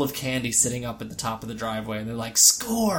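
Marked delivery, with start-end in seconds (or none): 2.4-3.0 put-on excited kid shout. Kids grabbing candy, quoted.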